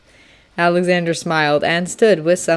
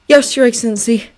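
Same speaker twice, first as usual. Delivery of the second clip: grudging yes; 5 semitones higher, 4 dB louder than usual. Acted. Alexander submits.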